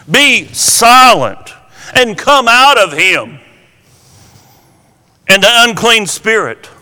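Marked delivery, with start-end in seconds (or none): 0.1-3.4 slow, commanding rebuke; stern command. Retold or imitated. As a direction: order the spirit out, slowly. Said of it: "But Jesus rebuked him".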